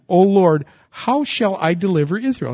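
preacher voicing Gideon's doubt; Gideon protesting. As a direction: voice Gideon's objection at full force. Gideon's protest voiced loudly.

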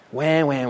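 low, mocking "wah wah"; mock baby wailing. Preacher mocks atheists' complaint about suffering, mock baby wail. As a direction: imitate a whining baby, dismissively. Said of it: "it's such a baby mentality".

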